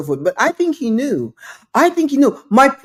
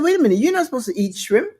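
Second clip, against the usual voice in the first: fast, slightly raised callout; calling him out; 3 semitones higher, much faster than usual. Retold or imitated. Woman calling out the guest at dinner, quick and pointed. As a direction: rattle off the accusation. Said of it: "she called him out".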